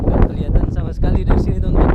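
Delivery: shouting over wind. Real, not acted. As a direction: raise your voice over the gusts. Strong wind on the hilltop. (berteriak melawan angin)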